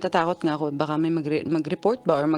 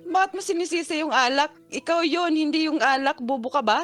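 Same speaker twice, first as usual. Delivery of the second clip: retold angry retort; 9 semitones higher than usual. Retold shouting match with boyfriend.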